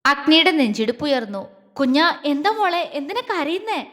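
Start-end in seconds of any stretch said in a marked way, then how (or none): 1.7-3.9 acted anxious tenderness; worried question, slightly raised pitch; fearful. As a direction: ask a crying loved one, scared and concerned. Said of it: "പേടിയോടെ വീണ്ടും ചോദിച്ചു".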